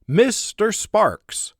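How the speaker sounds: loud, high, drawn-out call. Acted. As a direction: call him from across the house. Call from deeper inside the house.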